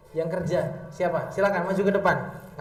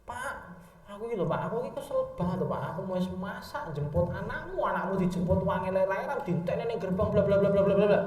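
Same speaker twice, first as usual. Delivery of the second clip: a hint of a tired wife complaining; wife moaning to her husband about a long day, nagging. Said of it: "kalau ibu-ibu tuh biasanya problematiknya gini".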